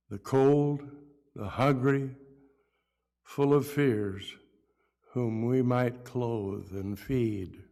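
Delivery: measured verse reading with pauses between phrases; poem recital. Acted. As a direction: read it as a Christmas poem, line by line. Reads own Christmas poem aloud.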